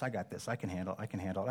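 the same boast, fading to a murmur. Retold or imitated. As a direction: mutter the boast again, dropping away. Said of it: "not to say".

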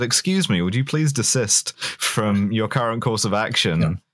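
mock-polite, even-toned request; nice, moderate tone. Listener jokingly rewrites the worker's outburst, nice and moderate. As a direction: politely object in a measured, everyday voice. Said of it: "In a very nice, like, moderate tone of voice".

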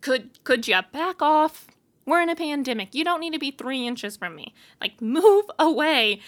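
irritated retort to the woman in line; mock annoyed. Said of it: "looking at her like".

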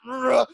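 mock primal yell, pitched high; high growled "ugh", a scaled-down scream. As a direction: imitate a short scream of frustration. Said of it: "just like a primal scream".

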